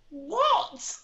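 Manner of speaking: high, laughing disbelief; half laugh the word in disbelief; incredulous what. Retold or imitated. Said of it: "And I was like".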